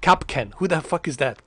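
usual speaking voice

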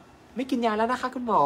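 high, slow, sweet voice of a patient; imitating a patient. Doctor voicing his patient telling him she quit medicine, high and slow. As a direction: play the relieved patient thanking her doctor. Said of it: "ที่บอกว่า".

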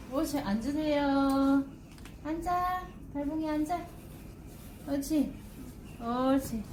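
coaxing sit commands to a pet; talking to a dog. Real, not acted. (강아지에게 말하듯 앉으라고 달래기)

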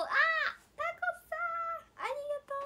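very high, loud delighted thanks; excited squeal. Real, not acted. Idol thanks a viewer for a gift, excited squeal. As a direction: squeal your thanks to a fan.

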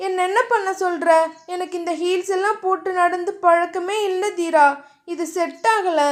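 a hint of a flustered girl protesting; whiny young woman. Diya complaining to Theeran about her heels, lightly whiny.

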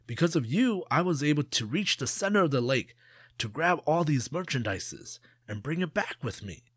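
high, teasing smug voice; boastful trickster Jia. Acted. Jia teases King about treasure in the lake, high smug voice. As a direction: lure the greedy king with a boast.

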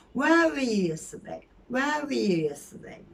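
"Where were you yesterday?" run together, "were" reduced; quick casual question. Shown as a demonstration. Teacher showing the quick, casual version. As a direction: toss it off quickly. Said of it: "öyle hızlı geçersin".

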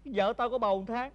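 tearful, choked-up announcement; crying. Acted. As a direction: cry out the news of the pregnancy. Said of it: "Có gì đâu khóc". (giọng khóc nghẹn ngào)

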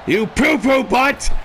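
gleeful taunt. Acted. Childish taunt at opponent.

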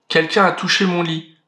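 a hint of a big papa bear; lightly voiced big bear; the father bear finding the door open, a light big-bear voice. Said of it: "de sa grosse voix".

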